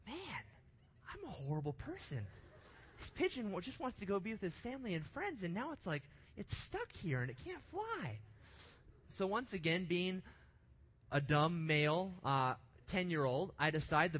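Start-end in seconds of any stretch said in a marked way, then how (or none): 0.1-8.2 retold lament climbing much higher, whiny and near tears; mock self-pity. Boy pitying the hurt pigeon, whiny mock lament. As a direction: wail it like a kid who feels terrible. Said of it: "I became really sad".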